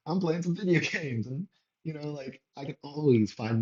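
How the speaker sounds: high, far, laughing mock-whine at the dog; a playful laughing excuse.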